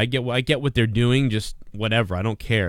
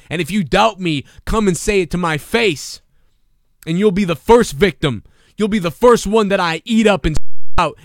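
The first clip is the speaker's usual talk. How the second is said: mock wrestling promo; 3 semitones higher, 4 dB louder than usual. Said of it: "something like that".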